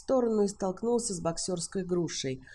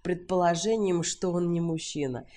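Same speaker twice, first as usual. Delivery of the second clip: usual speaking voice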